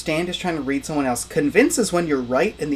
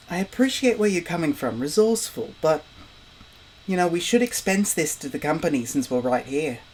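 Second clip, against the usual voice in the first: bad Australian accent; 3 semitones higher than usual. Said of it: "deliberately trying to do a bad Australian accent".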